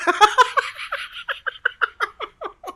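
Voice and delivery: long high-pitched cackle; high cackling laugh. Real, not acted. Host cracking up at Kathleen's comment, high cackle.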